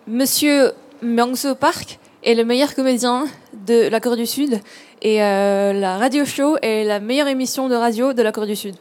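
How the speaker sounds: spoken French. Shown as a demonstration. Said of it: "그런 말을 좀 멋지게 한번 해주시기 바랍니다".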